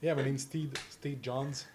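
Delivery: a light attempt at Roger Moore; lightly voiced suave spy introduction; Roger Moore line. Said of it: "That's my attempt at a Roger Moore line".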